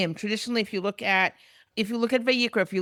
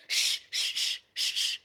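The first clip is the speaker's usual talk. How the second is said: soft unvoiced shushing, like calming a crowd; 5 dB quieter, slower than usual. Levites hushing the weeping people, soft shushing. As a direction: hush them gently, all breath. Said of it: "They're saying".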